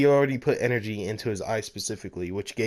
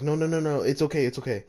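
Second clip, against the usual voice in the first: a hint of a higher, flustered girl; blushing girl; 4 semitones higher, faster than usual. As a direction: brush it off in a rush, lightly voiced. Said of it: "the girl starts to blush and says".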